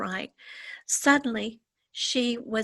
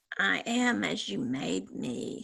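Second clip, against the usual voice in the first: growling through clenched teeth; 2 semitones lower, 4 dB quieter than usual. Narrating a story, reading a strange being's reply to Lenny: growled through clenched teeth. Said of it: "he growled between clenched teeth".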